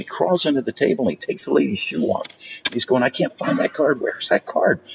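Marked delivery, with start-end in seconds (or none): 3.0-4.8 higher-pitched, mock-frantic search for the card; snapped magician, retold. Magician hunting a lost card before diners, mock frantic. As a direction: imitate a magician coming unhinged. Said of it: "he just snapped".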